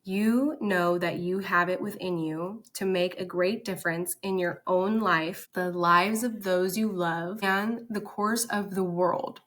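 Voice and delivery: slow, deliberate quoted reading; slow emphatic reading. Acted. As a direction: read it back slowly, stressing each phrase. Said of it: "This says".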